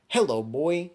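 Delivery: loud, high-pitched crowing greeting; mock taunting shout. Storyteller taunting the villain he just floored, loud and high. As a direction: crow it over a downed opponent.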